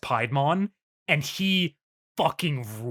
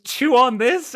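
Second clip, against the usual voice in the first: hammy villain taunt; 11 semitones higher, 7 dB louder than usual. Retold or imitated. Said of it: "Piedmon says".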